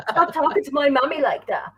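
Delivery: lightly voiced whiny little mommy's boy; a hint of a child defending mommy. Fan mocks Aquaman defending his mother, whiny kid voice. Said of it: "proper little mommy's voice".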